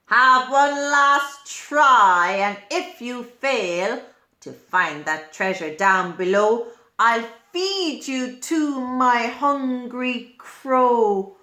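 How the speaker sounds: a touch of menace in a story villain's ultimatum; mildly threatening villain. Acted. Lizard threatens the worm angrily.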